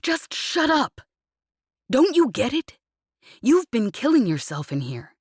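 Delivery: furious rant. Acted. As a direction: pour out guilt and rage at full volume. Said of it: "he snapped furiously".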